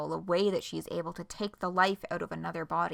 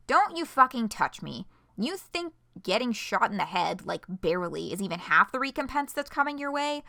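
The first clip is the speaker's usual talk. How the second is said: scared and angry; 3 semitones higher than usual. Acted. Threatened character lashing out.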